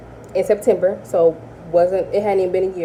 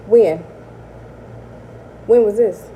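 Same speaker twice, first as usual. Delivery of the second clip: shocked disbelief; 3 semitones higher, 4 dB louder than usual. Retold or imitated. Shocked by Texas claim.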